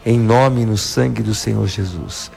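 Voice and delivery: firm, measured prayer voice; deliverance prayer. Acted. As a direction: pray it out with authority over the music. Priest leads a deliverance prayer.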